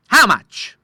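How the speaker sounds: high, loud question; a startled how much; surprised. A narrator's reading. The Admiral asking the doctor, surprised and high.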